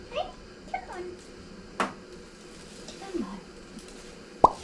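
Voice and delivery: whispered, calm and gentle; soft coaxing whisper. Real, not acted. Groomer coaxing the anxious dog into the bath, whispering. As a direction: coax him quietly toward you. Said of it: "I talk in my anxious doggy voice".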